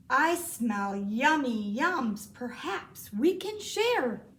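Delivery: slow and greedy, then lifting on share; lightly voiced badger; grinning badger. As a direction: savour the smell as the badger. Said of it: "badger says with a grin".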